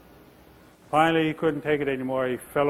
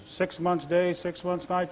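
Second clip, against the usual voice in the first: arguing bear; 4 semitones higher, slower than usual. Acted. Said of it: "they start arguing".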